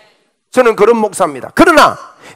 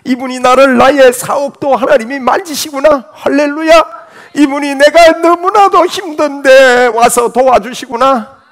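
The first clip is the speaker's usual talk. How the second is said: mock joyful believer; 4 semitones higher, 5 dB louder than usual.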